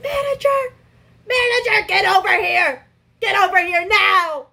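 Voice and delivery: high, loud yelling for the manager; screaming for manager. Retold or imitated. Food-covered worker screaming for her manager: full yell. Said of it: "I scream at the top of my lungs".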